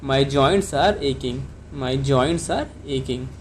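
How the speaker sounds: each word drawn out for learners; very slow classroom dictation; very slow teaching model. Shown as a demonstration. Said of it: "तो आप इसको doctor से कैसे बताएंगे?".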